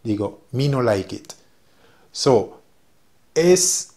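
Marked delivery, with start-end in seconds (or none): 0.5-1.3 me no like it, with me said like English "mee"; Patois phrase repeated. Shown as a demonstration. Teacher repeats the Patois phrase for her students. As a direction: repeat me no like it clearly. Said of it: "Ok, repito".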